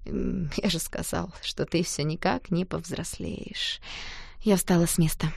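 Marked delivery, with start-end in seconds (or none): 0.1-3.8 flat and quiet, deflated; cool quiet reply. A narrator's reading. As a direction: Danya answering coldly, quiet.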